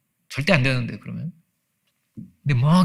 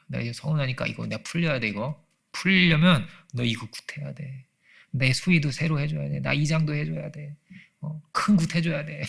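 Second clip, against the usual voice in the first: slow, drawn-out demands of an aggrieved spirit; demanding spirit voice; 2 semitones higher, slower than usual. Retold or imitated. Preacher imitates a spirit making demands through a shaman, slow and drawn out. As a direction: lightly voice a dead parent asking for a big gut. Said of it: "이렇게".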